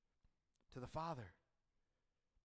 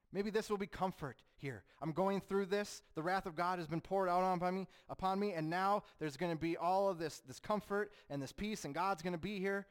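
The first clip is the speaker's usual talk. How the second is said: hopeful inner voice; 5 semitones higher, 4 dB louder than usual. Acted. Jesus's hoped-for comfort voiced.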